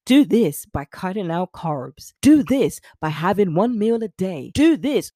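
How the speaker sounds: put-on American sales pitch; punchy imitation of an American diet promoter; mock American accent. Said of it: "no offense to those in the States".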